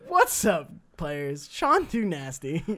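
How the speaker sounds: imitating a YouTube intro. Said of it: "his intro is just like".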